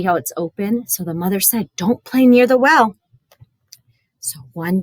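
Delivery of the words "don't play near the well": mother's warning. Acted. Mother warning her sons.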